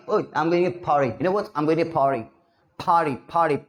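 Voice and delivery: "party" as "phaari", p flung out with air; thrown-out P sound. Shown as a demonstration. Student telling a friend of a party, "party" with puffed p. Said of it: "ऐसे फेंक दे वाली sound".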